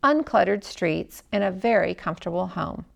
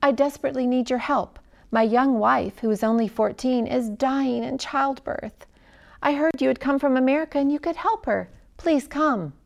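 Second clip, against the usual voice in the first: anxious plea; 3 semitones higher than usual. Acted. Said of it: "said the man anxiously".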